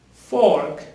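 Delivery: "Fork" with the R made in the throat; teacher's model "Fork", falling, R pronounced; throaty R. Shown as a demonstration. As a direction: sound the R in "Fork" from your throat. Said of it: "You pronounce the R with your throat".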